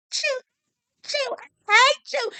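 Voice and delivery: high, slow sobbing mock cry through tears; imitating sobbing. Recapper mimics Haley breaking down, sobbing high. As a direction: mimic her choking out the words while crying. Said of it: "He's starting to kinda do that".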